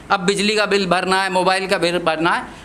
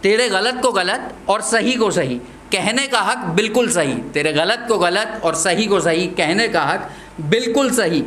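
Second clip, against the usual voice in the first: rhythmic verse with lifted line endings; poem recitation. Acted. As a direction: recite it in a measured beat.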